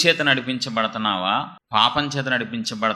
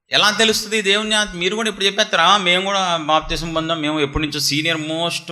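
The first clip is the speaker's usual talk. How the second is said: mock boasting; 5 semitones higher, faster than usual. Mimics self-important long-time church members.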